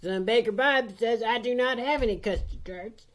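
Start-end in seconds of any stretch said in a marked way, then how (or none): 1.2-3.1 a high, wobbly voice on the edge of tears; quivering lip. Acted. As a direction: baker about to cry, pitched up. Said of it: "lower lip start to quiver".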